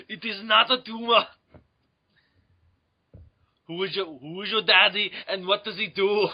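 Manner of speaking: mock Austrian action-star accent; Arnold Schwarzenegger. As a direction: do a jokey muscleman movie voice. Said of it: "random Arnold Schwarzenegger movies".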